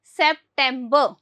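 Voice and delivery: सितंबर drawn out as sep-tem-buh; slow model word. Shown as a demonstration. Teacher has class repeat सितंबर slowly. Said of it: "क्या आता है".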